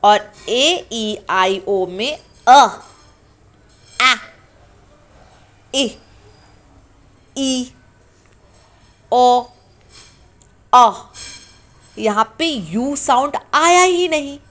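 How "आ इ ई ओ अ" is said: each vowel sound said slowly and separately; vowel sound demo. Shown as a demonstration. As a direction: spell out आ, इ, ई, ओ, अ one by one. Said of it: "sound को ध्यान दिया". (स्वर ध्वनियाँ एक-एक करके धीरे से)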